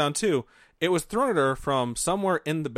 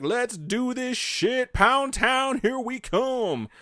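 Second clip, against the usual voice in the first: slow, high mock-eager voice; hammed-up keen wife, drawn out; 10 semitones higher, much slower than usual. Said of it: "Marianne was like".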